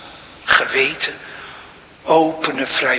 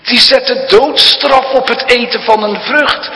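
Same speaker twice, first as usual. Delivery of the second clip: higher, louder taunting tempter; devil's voice; 8 semitones higher, 5 dB louder than usual. Retold or imitated. Preacher voicing the devil's taunt, higher and louder. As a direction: sneer at the harsh law. Devil's words, first telling.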